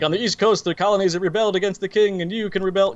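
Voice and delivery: mimicking a rote political pitch; rote speech, imitated. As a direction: rattle it off like a memorized speech. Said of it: "She gets that whole rote thing".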